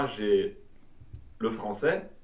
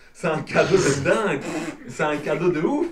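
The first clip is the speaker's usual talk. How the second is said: excited exclamation; 6 semitones higher, 10 dB louder than usual. Real, not acted. Excited praise of double culture.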